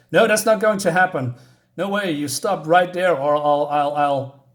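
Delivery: retold objection, stuck on the threat; stuttering refusal. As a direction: refuse loudly, then stumble. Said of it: "he's still stuttering".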